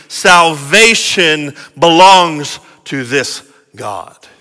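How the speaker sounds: slow, weighty proclamation, fading at the end; slow preacher's declaration, dying away; authoritative cry. Acted. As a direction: declare it with authority, then let it settle. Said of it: "cries out with authority".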